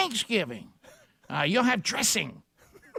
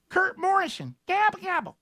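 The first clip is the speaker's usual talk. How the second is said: higher, playful gobble; gobbling turkey voice; 6 semitones higher than usual. Pretend. Turkey call.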